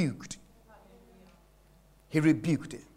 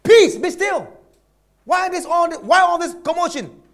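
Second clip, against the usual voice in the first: disappointed rebuke; 3 semitones higher than usual. Acted. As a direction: scold the storm with letdown. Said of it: "you can see the disappointment in his tone".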